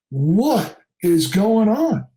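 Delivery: slow, drawn-out disbelief; retold baffled demand; weirded out. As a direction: stretch each word in bewilderment. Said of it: "totally weirded out by this whole situation".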